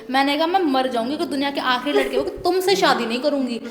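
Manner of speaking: angry vow. Retold or imitated. Woman retells vowing to the groom she'll never marry him, heated. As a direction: swear it out in anger. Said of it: "गुस्से में है भाई".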